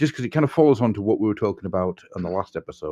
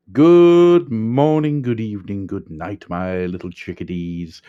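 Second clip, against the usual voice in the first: drawn-out show greeting; 5 dB louder, slower than usual. Acted.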